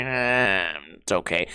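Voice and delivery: mock half-hearted shrug, dropping low; unimpressed. Fussy guest judging a classic Italian dish, unimpressed. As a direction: mimic a grudging, lukewarm verdict. Mimics the guest's lukewarm verdict.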